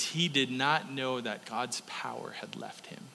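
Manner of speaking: hushed breathy whisper. Acted. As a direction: drop to a whisper for the reveal. Climax of the story.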